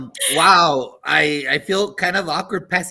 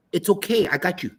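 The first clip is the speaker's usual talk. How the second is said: caring educator voice; 3 semitones higher, 4 dB louder than usual. Retold or imitated. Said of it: "You hear that caring, uh, educator voice".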